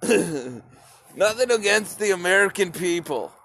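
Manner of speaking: says it through a laugh, half joking; laughing disclaimer. Real, not acted. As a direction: brush it off with a chuckle. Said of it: "I wanna clarify that".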